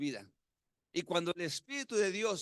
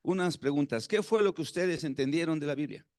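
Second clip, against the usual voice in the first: teacher quizzing class; 4 dB louder than usual. Retold or imitated. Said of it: "les dijo".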